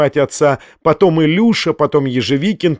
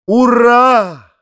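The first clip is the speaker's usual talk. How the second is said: high, loud cheer; shout; 9 semitones higher, 5 dB louder than usual. Acted. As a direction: cry out in triumph. Фома кричит ура. (громкий крик «Ура!»)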